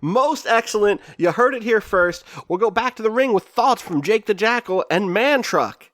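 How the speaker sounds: high sports-broadcast voice; announcer. Acted. Announcer handing back to the ring, high hype voice.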